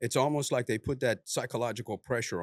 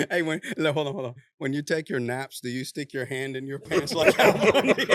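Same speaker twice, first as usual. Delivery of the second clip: giggling while quoting a silly question; laughing retelling; 3 semitones higher, 5 dB louder than usual. Retold or imitated. Friend retelling his Al Bundy nap question, laughing. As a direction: quote laughed through, a bit louder. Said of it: "You said".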